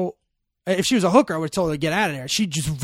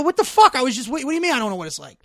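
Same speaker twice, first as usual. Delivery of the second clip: high, loud disbelieving yell, fast; arguing with his friend, high and loud; exasperated yell; 8 semitones higher, 6 dB louder, much faster than usual. Retold or imitated. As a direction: fire it back in disbelief. Speaker retells arguing back.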